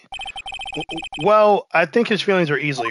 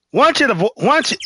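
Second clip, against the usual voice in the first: put-on New York accent; 6 semitones higher, 3 dB louder, faster than usual. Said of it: "I gave him my New York accent".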